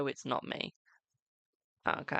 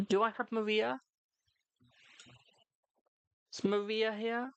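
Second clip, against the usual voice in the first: high singsong calling; calling for someone; 7 semitones higher than usual. Real, not acted. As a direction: call out the name in a high, searching lilt. Calling for a viewer again.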